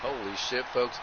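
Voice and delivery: running ringside commentary calling every move; wrestling play-by-play. Acted. Commentator calling a blindfolded wrestling match to viewers, play-by-play. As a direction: call the match move by move, punching each folks.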